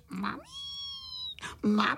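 put-on high, rising childish wail; crying for mum. A narrator's reading. Little crickets call for their mum, crying. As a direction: wail it upward at the end. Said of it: "brečeli na celé kolo a volali".

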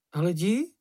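high, squeaky indignant cry; Sniff exclaiming. A narrator's reading. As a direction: pitch up and protest like Sniff. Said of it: "vykřikl Čenich". (vysoký pištivý výkřik Čenicha)

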